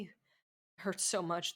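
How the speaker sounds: normal talking voice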